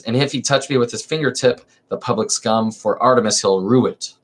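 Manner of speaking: lively theatrical reading of a verse comedy; dramatic play reading. Acted. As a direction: read the chorus lines with stage energy. Reads Lysistrata.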